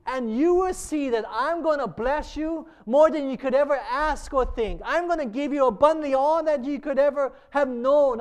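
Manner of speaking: preacher building up God's promise; fervent preaching. Acted. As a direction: preach it with urgent, rolling emphasis.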